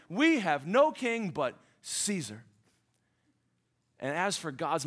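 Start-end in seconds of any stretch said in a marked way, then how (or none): 0.1-2.4 slow and proud, lightly acted; a hint of smug pride; proudly. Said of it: "said so proudly".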